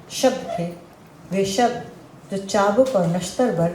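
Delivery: measured Hindi poetry reading; poem recitation. Real, not acted. Poet recites on words that wound women, measured recitation. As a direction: recite with deliberate pauses, letting lines fall at their ends.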